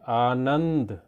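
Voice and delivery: आनंद slowly, weight on the middle नं; stressed middle syllable. Shown as a demonstration. Teacher showing children where stress falls, stressed middle of आनंद. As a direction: draw out and lean on नं in आनंद. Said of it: "जोर देने वाला हमारा बीच में".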